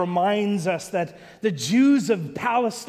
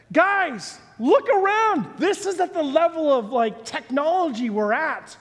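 exasperated appeal; 7 semitones higher than usual. Acted. Acted appeal to the Amish.

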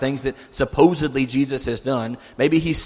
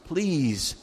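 mild pleading; 2 semitones higher, 3 dB quieter, slower than usual. Retold or imitated. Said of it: "He's begging Jesus at this point".

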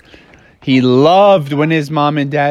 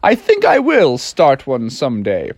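dad. Acted. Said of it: "And he's like".

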